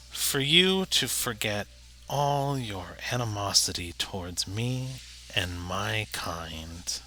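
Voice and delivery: lightly voiced goblin, trailing down to a hush. Game master voices the goblin.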